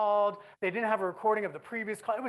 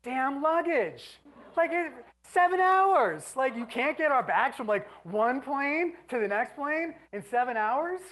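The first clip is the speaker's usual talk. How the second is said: high, slow, incredulous rant; exasperated disbelief; 4 semitones higher, slower than usual. Real, not acted. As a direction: let the disbelief climb and stretch. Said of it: "exasperated rant".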